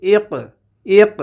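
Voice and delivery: ইক with a bouncing echo on the ক; qalqalah echo. Shown as a demonstration. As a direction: stop on ক and let it rebound. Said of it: "পাল্টা আওয়াজ হবে". (ইক শব্দে কফের কলকলা, পাল্টা আওয়াজ সহ)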